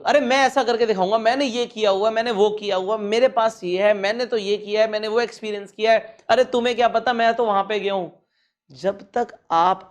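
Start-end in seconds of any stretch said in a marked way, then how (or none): 0.0-6.2 mock bragger. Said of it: "मेरे से बात कर ली ना". 6.3-8.1 mock show-off. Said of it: "मैंने सुना है".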